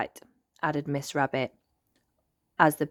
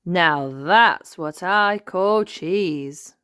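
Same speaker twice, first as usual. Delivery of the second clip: slow satisfied relish; 2 semitones higher, 6 dB louder, much slower than usual. Acted.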